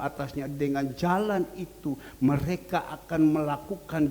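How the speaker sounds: emphatic preacher reading a verse; forceful scripture reading. Acted. Preacher reading Hebrews to the congregation, forceful. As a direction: proclaim the verse firmly.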